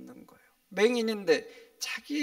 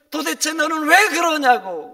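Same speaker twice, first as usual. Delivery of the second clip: loud, high-pitched mock rebuke; retold scolding; 9 semitones higher, 15 dB louder than usual. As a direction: imitate people telling someone off at full voice. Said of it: "오히려 야단을 칩니다".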